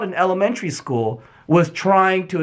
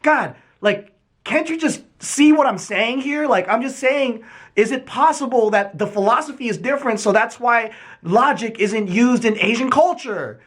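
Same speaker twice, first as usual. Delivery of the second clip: pitched up, exasperated whine at his parents; frustrated kid; 5 semitones higher than usual. Retold or imitated. Young son exasperated at his parents, high frustrated plea. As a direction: plead it high, fed up they don't get it. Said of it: "I was getting so frustrated".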